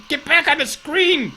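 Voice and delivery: high-pitched frantic order; urgent call. Real, not acted. Player frantically pleading with the game screen, urgent high call.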